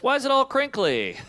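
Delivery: puzzled friend. Retold or imitated. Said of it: "Your friend sits on your mattress".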